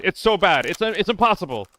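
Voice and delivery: high, loud exasperated whine; panicking gamer. Real, not acted. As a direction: rush it out in despair. Gun failing mid-fight.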